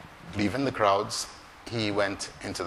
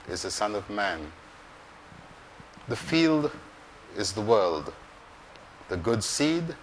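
gospel reading. Acted. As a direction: proclaim it like Sunday Mass. Reads the gospel aloud.

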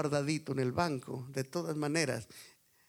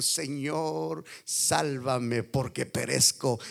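desperate plea; 2 semitones lower, much slower than usual. Retold or imitated. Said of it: "desesperadamente dijo".

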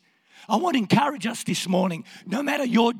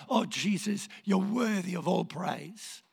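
suddenly softer acted devotion; adoring praise; 5 dB quieter than usual. David praising after his lament, adoring worship. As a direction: settle from lament into quiet worship.

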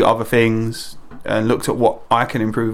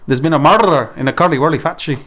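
light Scottish accent, rolled R; 4 semitones higher, faster than usual. Shown as a demonstration. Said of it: "what your Scottish accent's like".

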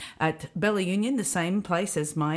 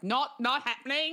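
covering her ears; 10 semitones higher than usual. Retold or imitated. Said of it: "imagine her with her hands clapped over her ears".

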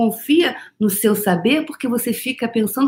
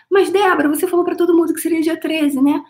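imagined objection; 9 semitones higher than usual. Pretend. Imagined follower objecting to her.

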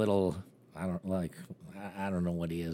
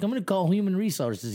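much higher, louder indignant cry; high loud mock protest; high squeaky mock outburst; 11 semitones higher, 5 dB louder than usual. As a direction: squeal it like the offended little guy. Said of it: "He's like".

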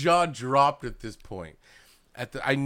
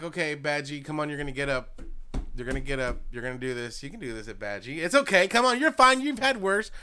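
pleading encouragement. Retold or imitated. Fan urging a dying character to get up, rising pleading. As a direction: coax a dying friend, getting more desperate. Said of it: "I'm like".

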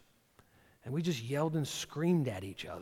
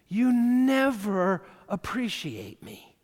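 mock complaining spouse; 6 semitones higher, 8 dB louder, much slower than usual. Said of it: "never say never or always".

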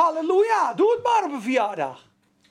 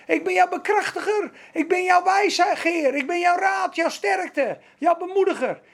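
rising higher, building to a shout; voice of the Spirit; 6 semitones higher than usual. Retold or imitated. The Spirit answers the believer, building to a higher shout. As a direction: build the promises up to a call. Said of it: "Wat zegt de Geest dan?".

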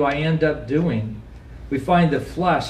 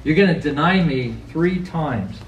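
casual Jesus. Retold or imitated. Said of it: "Jesus said".

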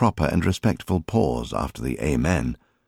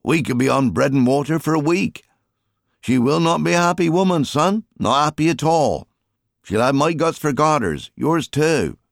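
higher, louder voice of a weary father; a higher, louder father half-joking about his wife's anger; rueful fisherman father; 10 semitones higher, 4 dB louder than usual. A narrator's reading. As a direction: grumble to your son while rowing hard. Father Jim voiced in story.

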